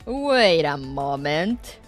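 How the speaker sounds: drawn-out suspicious wait; slow, puzzled double take; surprised slow. Real, not acted. Spots a familiar icon.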